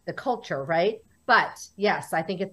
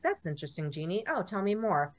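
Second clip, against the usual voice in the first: a mild, softer, doubtful "that's interesting"; polite skepticism; 5 dB quieter than usual. Retold or imitated. Skeptical friends humouring Jeannie, mildly doubtful. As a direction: sound politely unconvinced, a little softer. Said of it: "the skepticism is just more like".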